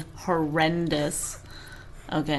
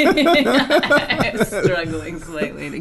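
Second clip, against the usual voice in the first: laughing; slower than usual. Real, not acted. Laughing mid sentence.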